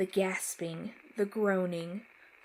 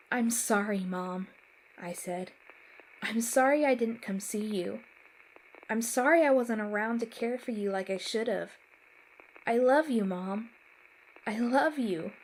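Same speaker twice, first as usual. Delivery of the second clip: tearful pleading; 3 semitones higher, 5 dB louder than usual. Acted. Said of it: "I felt more tears stream down my face".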